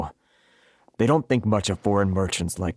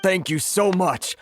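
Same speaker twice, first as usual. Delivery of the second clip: grateful thanks; 7 semitones higher, slower than usual. Acted. Grateful merchant after help offered.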